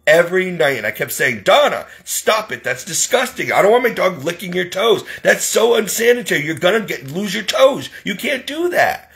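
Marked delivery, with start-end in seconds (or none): 1.4-9.1 higher-pitched retold telling-off; exasperated scolding. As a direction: scold with disgusted disbelief.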